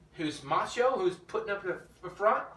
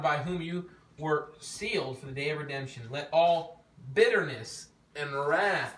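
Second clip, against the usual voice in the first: measured reading of scripture. Acted. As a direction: read the verse out to the group. Reads scripture aloud to group.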